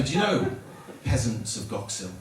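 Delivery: mock minstrel proclamation. Travelling minstrels address village peasants.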